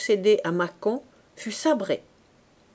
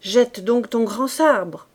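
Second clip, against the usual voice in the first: slow, louder exasperated order; exasperated cry; 2 semitones higher, 6 dB louder, slower than usual. Acted. Corporal to clumsy Fabrice, slow exasperated cry. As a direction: drag out the order in disbelief. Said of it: "s'écria le caporal".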